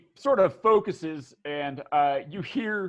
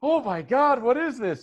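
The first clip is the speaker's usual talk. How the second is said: high, loud mock disgust; high-pitched, acted shock; appalled; 9 semitones higher, 6 dB louder than usual. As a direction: blurt it after spitting out a foul drink. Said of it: "She, she goes".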